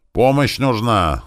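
high, drawn-out call; calling for help. A narrator's reading. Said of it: "закричали наводчики". (протяжный призыв о помощи)

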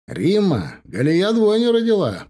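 high-pitched, stretched-out announcement; excited shout. A narrator's reading. Husband shouting to his wife after the phone call, excited shout. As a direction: call the big news through the flat. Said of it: "закричал Сатчан".

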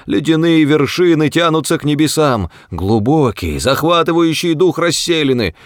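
high, impassioned protest; indignant, high-pitched tirade; outraged outcry. A narrator's reading. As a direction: plead for the artwork, appalled. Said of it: "вскричал старец".

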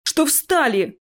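contained, high-pitched yell. Acted. Nevil yells at friends as the troll falls. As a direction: urge them on, mildly shouted. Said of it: "заорал Невил".

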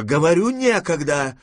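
high, impatient cry; shouting. A narrator's reading. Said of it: "закричала бабушка". (нетерпеливый вскрик)

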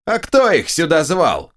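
high, slow squeal; a reasonable retort in a shrill ogre voice; the right ogre head squeals its retort. A narrator's reading. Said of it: "возразил мне визгливый голос".

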